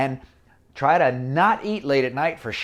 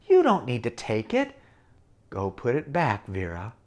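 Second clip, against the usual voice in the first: gentle conscience. Acted. Good conscience voice.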